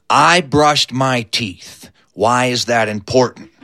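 low, measured, lightly acted worry; a touch of dread, pitched low; uneasy deadpan. Uncle Debo asks Skeeter about his brushed teeth, uneasy deadpan. Uncle warily answers grave question.

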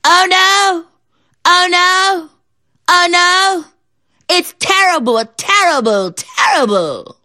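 high, loud fake wailing fading slow; mock howling. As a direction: ham up a fake lament. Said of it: "commenced to howling and screaming".

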